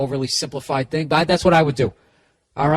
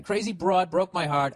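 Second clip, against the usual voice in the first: dramatic, slower read of the letter writer; higher, overwrought guy reading his letter; the guy again; 6 semitones higher than usual. Retold or imitated. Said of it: "this is the guy again".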